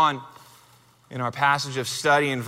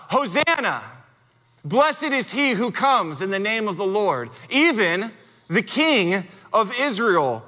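crowd shout, read; 2 semitones higher than usual. Retold or imitated. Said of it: "This is what the crowd shouts out".

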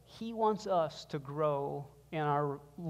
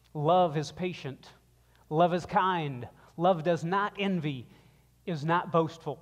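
scripture reading. Acted. Pastor rereading the verses for the church to reflect, emphatic. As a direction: read each line with weight and let the all things lines ring out.

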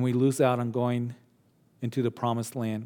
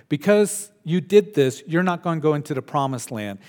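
God pronouncing judgment on Moses; stern raised voice; 4 dB louder than usual. Retold or imitated. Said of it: "the Lord said".

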